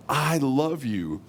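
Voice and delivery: slow, drawn-out declaration of love; earnest and unhurried; tender divine love. Acted. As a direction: let each word stretch with sincere affection. God looks at you and says.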